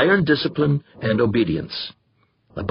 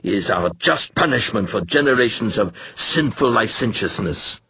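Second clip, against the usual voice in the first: fire-and-brimstone push on the first word; thundering preacher. Acted. The Reverend condemns sinners, mild pulpit thunder. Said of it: "thundered the Reverend Harold Carnaby".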